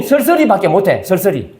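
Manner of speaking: "쓸쓸히" slurred to seol-seo-ri; "쓸쓸히" as a Gyeongsang native says it; Gyeongsang mispronunciation. Shown as a demonstration. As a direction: say "쓸쓸히" with the h dropped, dialect style. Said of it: "우리는 쓸쓸히밖에 못해".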